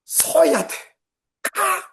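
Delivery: barking orders at wife behind the wheel; shouted commands. Retold or imitated. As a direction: snap out stop-and-go orders like a frantic instructor. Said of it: "이렇게 말하는 제가".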